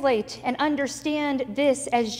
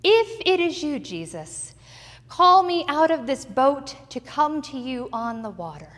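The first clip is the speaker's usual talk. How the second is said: doubting Peter; 2 semitones higher, 3 dB louder than usual. Acted. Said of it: "And so Peter says".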